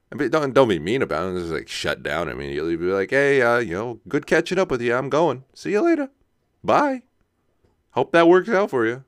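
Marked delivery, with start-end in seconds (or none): 3.1-9.0 breezy brush-off, rising high on the bye; chirpy exit line, goodbyes sung high; mock polite goodbye. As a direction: cheerfully wrap it up and leave.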